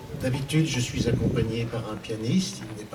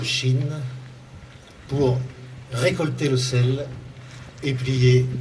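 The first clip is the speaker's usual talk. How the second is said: measured poetry reading in short phrases, with pauses; poem recital; 3 dB louder than usual. Acted. Author reads a poem on forced migrant workers to an audience, measured recital. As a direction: recite it as verse, pausing after each phrase.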